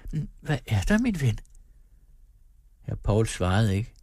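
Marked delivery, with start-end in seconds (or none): 0.1-1.4 tender. A narrator's reading. Wife tenderly asking her troubled husband, tender. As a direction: ask him gently, full of tenderness. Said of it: "Hendes stemme var fuld af ømhed".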